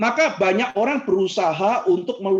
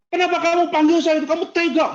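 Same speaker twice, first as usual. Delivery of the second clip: high, louder, wounded protest; acted anger; 9 semitones higher, 4 dB louder than usual. Hurt congregant reproaches the preacher for name-calling, acted anger. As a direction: protest the insult in a raised, offended voice. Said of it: "marah dia gitu".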